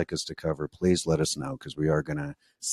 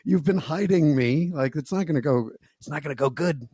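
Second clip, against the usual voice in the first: mock exasperated; 8 semitones higher, 4 dB louder than usual. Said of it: "he's like".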